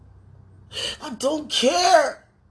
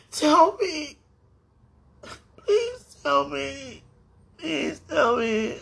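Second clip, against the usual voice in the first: crying; 3 semitones higher, slower than usual. Real, not acted. Sobbing plea for an answer.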